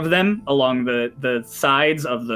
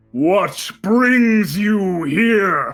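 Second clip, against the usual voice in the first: booming, resounding voice, drawn out here; 7 semitones higher, 3 dB louder than usual. Narrating the adventure, the storyteller voices what the players hear: booming voice. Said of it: "you hear a booming voice".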